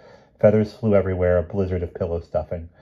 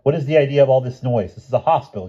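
scolding; 6 semitones higher, 6 dB louder than usual. Acted. Professor scolding noisy nurses.

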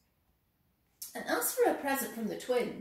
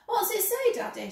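put-on little girl voice; 12 semitones higher, 6 dB louder than usual. Child Sophie asks her father.

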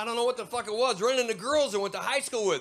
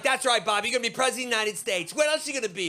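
louder, doting mother with a laugh; proud mom; 3 semitones higher, 3 dB louder, faster than usual. Retold or imitated. A hint of a doting mom egging on her son. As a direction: cheer the kid on, rising at the end. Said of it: "And she's like".

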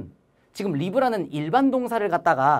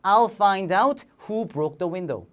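very slow, each word drawn out; slow demonstration sentence; slow model reading; much slower than usual. Shown as a demonstration. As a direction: read it slowly for the class. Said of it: "결론은 똑같다는 거".

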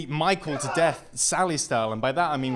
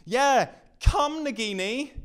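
much higher put-on hiss of a call; mock villain; 10 semitones higher, 5 dB louder, slower than usual. Backstabbing friend calling his snake, hammed-up villain call. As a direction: beckon like a snake charmer.

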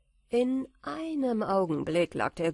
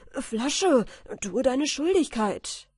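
raised, higher command full of glee; joyful shout; 5 semitones higher, 5 dB louder, slower than usual. A narrator's reading. Michael commanding his bottle, shouting for joy. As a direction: shout the order happily. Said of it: "schrie in seiner Freude".

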